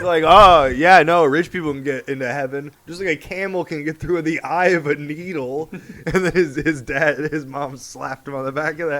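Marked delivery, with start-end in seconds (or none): 0.3-5.7 sarcastic know-it-all, loud on the opening; wisecracking mock agreement; sassy Jesus. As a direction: toss it off with cheeky sass. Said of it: "he's just, like, being sassy".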